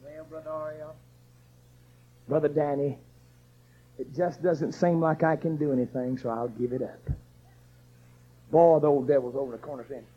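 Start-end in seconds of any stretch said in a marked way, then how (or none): 0.0-7.1 whining quitter. Retold or imitated. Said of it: "come walking up to Brother Ariel and say".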